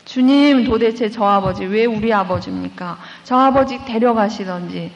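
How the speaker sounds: mildly imitating a girl railing at God; understated anger poured out at the cross; retold angry prayer. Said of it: "삿대질로 예수님한테 다 퍼붓대요".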